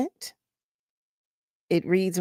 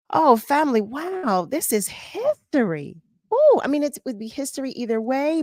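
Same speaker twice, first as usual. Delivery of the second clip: excited; 3 semitones higher than usual. Real, not acted. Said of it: "Listen to me, I'm shouting, I'm yelling".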